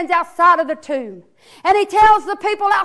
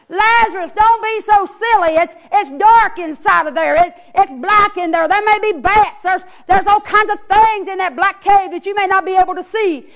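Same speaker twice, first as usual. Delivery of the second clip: coaxing Jesus; 2 semitones higher than usual. Acted. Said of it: "He's like".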